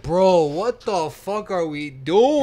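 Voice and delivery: drawn-out, disbelieving complaint; exasperated reaction. Retold or imitated. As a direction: drag it out in mock exasperation. Acted exasperated reaction to the film.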